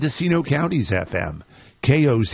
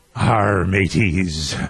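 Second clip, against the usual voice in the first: put-on pirate voice, much lower; 6 semitones lower than usual. Radio host opening the show on Talk Like a Pirate Day, pirate voice. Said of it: "It is Talk Like a Pirate Day, which is why I started with that outburst".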